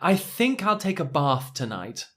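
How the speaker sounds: put-on light posh London accent, long ah in bath; a mild upper class London voice, bath as bahth. Teacher imitates a posh London speaker. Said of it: "do an impression of someone from central London".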